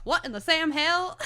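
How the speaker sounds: loud, high-pitched exclaiming yell; high mock holler breaking toward laughter; imitated yell. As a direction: yell it out in comic outrage. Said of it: "slips in blood and yells".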